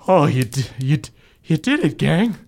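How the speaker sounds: lightly voiced father, stammering relief; Bev Senior greeting. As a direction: stumble out a proud greeting.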